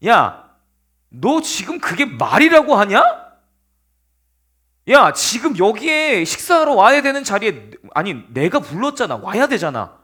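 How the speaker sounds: hammed-up indignant scolding; enraged king. King fuming at his son over the empty dinner seat, acted anger. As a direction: act out an irate king berating his son. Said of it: "미친 듯이 길길이 뛰기 시작하는".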